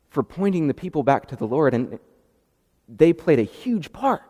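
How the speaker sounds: ordinary delivery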